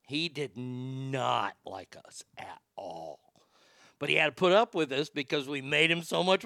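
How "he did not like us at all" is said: laughing through it. Real, not acted. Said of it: "I'm laughing so hard".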